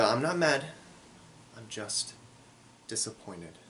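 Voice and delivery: a hint of a disappointed parent, dropping to near hush. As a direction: sigh it out like a mom let down by her kid. The disappointed-parent look voiced.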